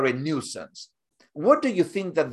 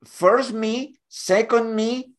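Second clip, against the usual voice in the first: higher voice climbing with each "me"; mock egotist; 6 semitones higher than usual. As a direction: parody a self-absorbed kid. Mocking the spoiled favorite child.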